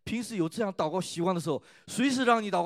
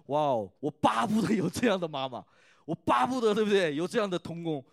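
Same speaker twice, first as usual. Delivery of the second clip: excited exclamation; 2 semitones higher, 6 dB louder than usual. Real, not acted. Pastor marvelling at the faithful mother to the congregation, excited. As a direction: gush about her as a dream mother.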